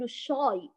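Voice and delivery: الشاي with thick backed aa; emphatic shaw-y for الشاي; heavy wrong shin. Shown as a demonstration. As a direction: darken the ش and vowel in الشاي. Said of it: "لا يمكن، ولا في لهجة نقول".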